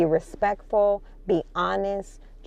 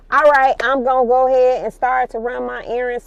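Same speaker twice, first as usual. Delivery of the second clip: fast, louder Chicago accent slipping out; 5 semitones higher, 7 dB louder, faster than usual. Real, not acted. Vlogger heading out on errands, loud fast Chicago accent. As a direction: let the Chicago accent come through, quick and loud. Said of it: "that little Chicago accent coming out".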